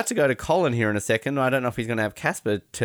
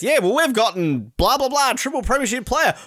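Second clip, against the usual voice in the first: high, loud mock footballer; imitating the footballer's brush-off; mock footballer reply; 11 semitones higher, 4 dB louder than usual. Mocking the Richmond player's answer to Tessa. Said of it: "it's like".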